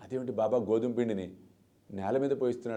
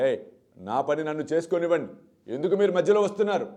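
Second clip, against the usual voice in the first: raised, heated retort, louder toward the end; agitated outburst; 3 semitones higher, 5 dB louder than usual. Retold or imitated. Baba snapping at the women grinding wheat, agitated. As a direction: push the women away with a flare of temper. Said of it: "అన్నాడు బాబా ఆవేశంతో".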